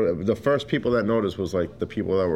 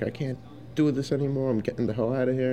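high, whiny complaining coworker, a retold imitation; fed-up coworker; 6 semitones higher, faster than usual. Coworker storming in, fed up, mock whiny complaint. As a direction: whine it like you're sick of this place.

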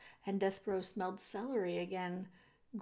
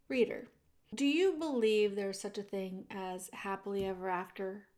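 ordinary delivery

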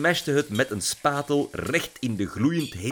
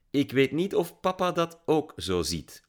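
higher, lightly amused voice; teasing, higher-pitched reply; amused, light laugh; 7 semitones higher than usual. A narrator's reading. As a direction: say it with a touch of laughter. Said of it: "lachte Lily".

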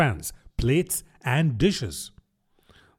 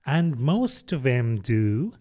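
put-on slow, withering old duchess; drawn-out, scornful duchess voice; frail withering duchess; slower than usual.

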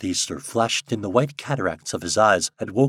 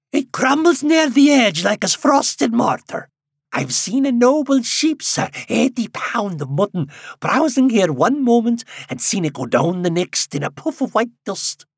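put-on high, loud old countryman; old man voice; 8 dB louder than usual. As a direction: speak as an excited old villager. Old man tells of cliff.

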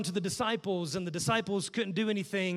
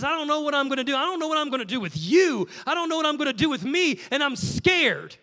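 rising, louder, rushing panic that slows on scared; desperate plea; 4 semitones higher, 4 dB louder than usual. Retold or imitated. Father of the epileptic boy begging Jesus, desperate and scared. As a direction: plead like a father afraid for his son.

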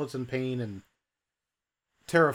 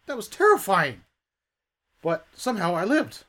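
shaken human; 6 semitones higher, 7 dB louder than usual. Acted. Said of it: "He's like".

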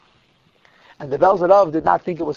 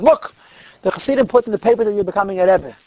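excited announcement; 3 semitones higher than usual. Retold or imitated. Genius runs in with the paper.

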